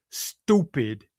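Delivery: mocking quote. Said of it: "I like the way you did that".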